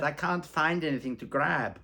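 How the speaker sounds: high, loud, slow put-on voice; voicing the model. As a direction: quote her like a bored model. Model's line quoted in story.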